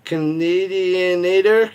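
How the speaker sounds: slow, careful sounding-out of Canadianator; trying to get the word out. Shown as a demonstration. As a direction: spell Canadianator out syllable by syllable, slowly. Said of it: "I can't even say it".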